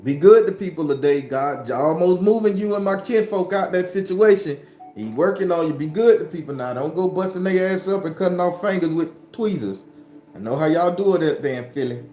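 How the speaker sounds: greeting viewers by name, upbeat and loud; excited shout-outs. Real, not acted. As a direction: hype up each name in turn.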